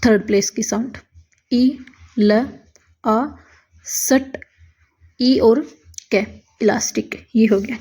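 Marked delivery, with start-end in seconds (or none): 1.5-7.8 elastic whispered while writing. Real, not acted. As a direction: whisper it to yourself. (फुसफुसाकर)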